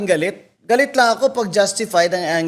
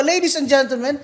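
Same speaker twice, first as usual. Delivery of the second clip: a higher-pitched mock appeal to the crowd; mock public appeal; 5 semitones higher than usual. Retelling how she called out the crowd at Rockwell, a higher-pitched mock appeal. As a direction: play to the bystanders like a rally speaker.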